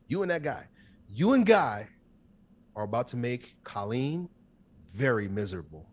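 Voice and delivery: deliberate, spaced-out message from a dream; clear dream voice. Retold or imitated. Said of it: "the voice is clear as day".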